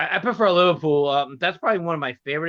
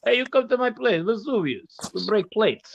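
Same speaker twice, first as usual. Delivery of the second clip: higher-pitched put-on restaurateur voice; mock restaurant owner; 7 semitones higher than usual. Joking as an Astoria restaurant owner, hammed-up host voice. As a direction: ham up a restaurant owner's invitation. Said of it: "Sounds like a fucking restaurant in Astoria".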